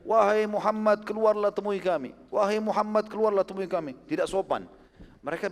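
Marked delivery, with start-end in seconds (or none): 0.0-3.9 retold calling out. Tribesmen yelling outside the Prophet's house, imitated calling out. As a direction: call out as if to someone inside a house. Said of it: "Depan rumah teriak-teriak".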